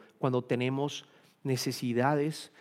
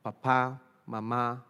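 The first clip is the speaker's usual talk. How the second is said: put-on baby talk; slower than usual. Shown as a demonstration. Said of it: "tengo algunas aquí para comentarles".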